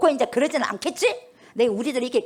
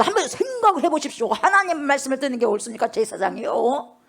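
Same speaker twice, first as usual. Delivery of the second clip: bold apostle. Retold or imitated. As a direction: dare them to think it over. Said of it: "제사장 앞에서 그러는 거예요".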